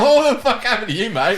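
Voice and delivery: loud, high-pitched disbelief; retold bewildered yell; incredulous outburst. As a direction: demand it of your mate, astonished and loud. Retold bewildered question to fallen mate.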